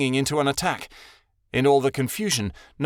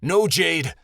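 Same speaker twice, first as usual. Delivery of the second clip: whining; 5 semitones higher, 4 dB louder than usual. A narrator's reading. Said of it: "Shadowin whined".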